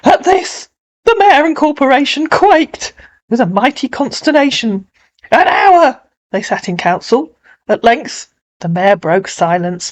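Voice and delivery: animated storytelling verse, settling at the end; dramatic poetry reading; poem recitation. Acted. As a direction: narrate the council's dismay with drama.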